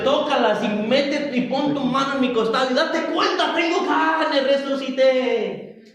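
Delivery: insistent preacher voicing the risen Lord; Jesus urging Thomas. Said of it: "Nuevamente el Señor le, le dice".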